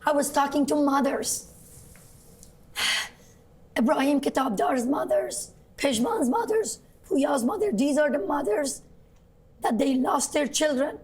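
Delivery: hoarse, strained voice after shouting. Real, not acted. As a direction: voice worn out from screaming. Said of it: "it sounds like you've lost your voice".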